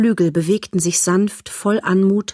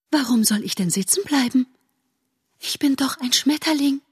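haughty butterfly; 7 semitones higher, 4 dB quieter than usual. Acted. Butterfly character voice.

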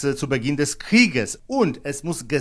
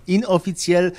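"inoffiziell" repeated with deliberate emphasis; stressed inoffiziell; 5 semitones higher, 3 dB louder than usual. Real, not acted. Correspondent insisting the information is not official, emphatic "inoffiziell". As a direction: lean firmly on the word "inoffiziell". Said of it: "ich betone".

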